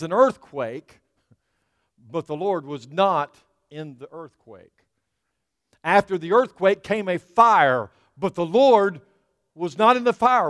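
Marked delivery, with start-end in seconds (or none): 5.8-10.5 rising preacher's call. Acted. Preacher building to climax.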